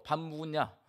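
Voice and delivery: terse Gyeongsang dialect, lightly voiced; a blunt husband home from outside. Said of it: "남편이 밖에 나갔다 돌아오면 세 마디 한대요".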